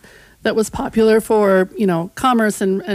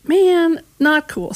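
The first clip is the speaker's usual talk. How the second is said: mock indignant colonists; 7 semitones higher, slower than usual. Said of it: "the colonists were like".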